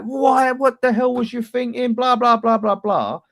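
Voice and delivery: high-pitched, exasperated imitation of a manager; mock telling-off. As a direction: mimic an indignant manager, trailing into blahs. Imagined manager telling off sent-off player.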